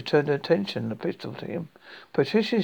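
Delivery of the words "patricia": weak voice. A narrator's reading. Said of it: "said in his weak voice".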